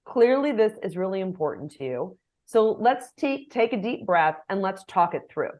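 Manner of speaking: gentle, unhurried reassurance; soothing. Shown as a demonstration. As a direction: ease an angry colleague down. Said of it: "I can say".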